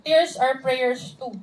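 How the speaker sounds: slow reading of the slide quote; slowly, words spaced, reading aloud. Shown as a demonstration. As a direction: read slowly, each word spaced. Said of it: "Sabi niya doon".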